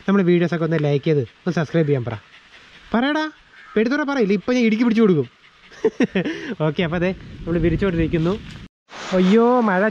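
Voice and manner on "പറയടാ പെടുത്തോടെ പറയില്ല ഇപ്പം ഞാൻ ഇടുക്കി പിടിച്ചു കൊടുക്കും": teasing a pet. Real, not acted. Teasing the bird to talk.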